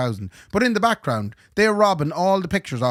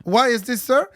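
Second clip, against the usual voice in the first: scammer's voice; 9 semitones higher than usual. Retold or imitated. Scammer voiced in retold call.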